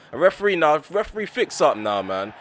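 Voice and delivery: real frustration boiling over; frustrated. Real, not acted. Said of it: "I'm getting so frustrated".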